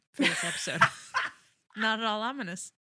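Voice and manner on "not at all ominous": dry mock ominous, with a laugh; sarcastic. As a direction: say it with a knowing laugh. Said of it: "ironic repetition".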